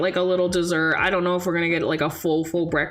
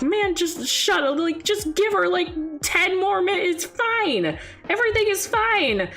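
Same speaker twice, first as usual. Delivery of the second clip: forced calm; 10 semitones higher than usual. Pretend. Talking back to own anxiety.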